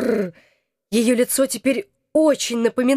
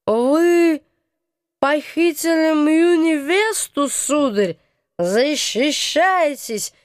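dramatic challenge; 3 semitones higher, slower than usual. Acted. Hoffman challenges from inside.

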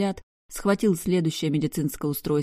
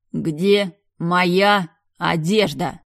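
very slow, louder, menacing male question; enraged man demanding, slow and louder; 6 dB louder, much slower than usual. Acted. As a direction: drag each word out like a threat. Black furious, demanding.

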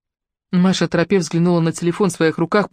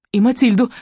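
higher, worried interjection; understated alarm, pitched up; mild alarm; 5 semitones higher, 3 dB louder than usual. A narrator's reading. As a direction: blurt it with a touch of fright. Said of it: "испугалась Маша".

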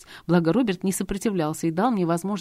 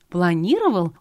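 louder surprised echo; planned, disbelieving question; 5 dB louder than usual. Acted. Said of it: "удивилась Лизетта".

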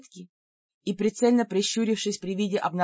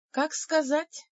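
thoughtful; 8 semitones higher, 3 dB quieter, slower than usual. Acted. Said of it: "задумчиво отозвалась я".

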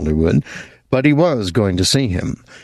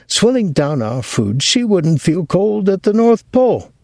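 put-on much higher, aggrieved old mother ranting; voice rising higher; 6 semitones higher than usual. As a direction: let the pitch climb as the grievances pile up. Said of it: "His mother's voice rose a half octave".

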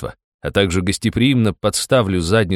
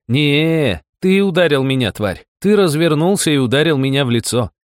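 accusation; 7 semitones higher than usual. A narrator's reading. Accusing Rob before guard.

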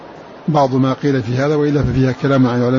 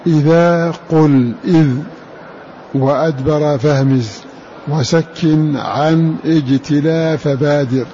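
poem recitation; much slower than usual. Acted. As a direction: chant the Shatibiyya verse slowly. Recites the verse. (إنشاد بيت الشاطبية)

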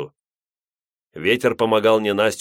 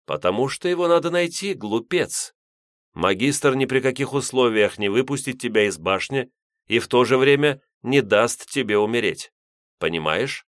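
lightly voiced scolding old priest; a touch of contempt from an elder; 5 semitones higher than usual.

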